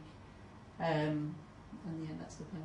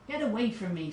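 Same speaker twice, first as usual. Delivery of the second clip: higher, louder brush-off from a stubborn patient; grumpy patient; 4 semitones higher, 5 dB louder than usual. Acted. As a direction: push the doctor away, irritated. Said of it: "says Fred Hobo".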